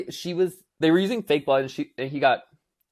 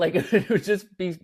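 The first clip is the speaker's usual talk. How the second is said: laughing; 4 semitones higher, 3 dB louder than usual. Real, not acted. Laughs while telling.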